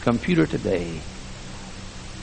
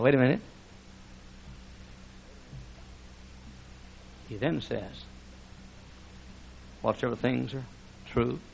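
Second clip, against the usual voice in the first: hushed sermon; 7 dB quieter than usual. Acted. Preacher quietly urging his congregation, hushed. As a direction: drop to a confiding hush.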